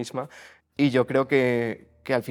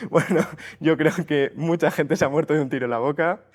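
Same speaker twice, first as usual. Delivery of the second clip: talking through real laughter, higher voice; laughing; 5 semitones higher, faster than usual. Real, not acted. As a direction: let the laugh break into the words. Laughing at grandmother's remark.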